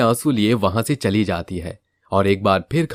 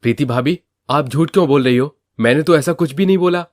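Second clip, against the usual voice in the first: slightly raised, quick denial; lightly voiced protesting brother-in-law; 6 semitones higher, 4 dB louder, faster than usual. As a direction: insist you never said it. Sohan protests. (जल्दी-जल्दी सफ़ाई देता देवर)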